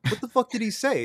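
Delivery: high-pitched retold question; puzzled asking. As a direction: ask it high, as if baffled. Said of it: "like, asking".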